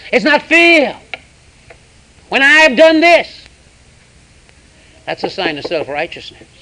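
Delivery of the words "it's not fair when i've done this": higher, louder, slow whining protest; hammed-up indignant moan, drawn out; loud mock whine. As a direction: wail it like a hurt complainer. Voicing a self-pitying complaint.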